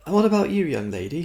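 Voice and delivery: gushing charity collector; sweetly pouncing on a new target; prim raffle woman. A narrator's reading. Woman turns to Fenny.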